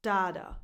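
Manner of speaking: dada with a weak da, then a strong DA; second-syllable stress. Shown as a demonstration. Teacher showing the wrong word music, dada stressed on the second syllable. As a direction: say dada as da-DA, the beat on the end. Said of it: "that's the music of this word".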